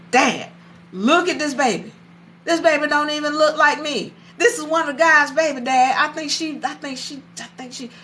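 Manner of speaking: distressed complaint. Retold or imitated. Upset son complaining to his dad.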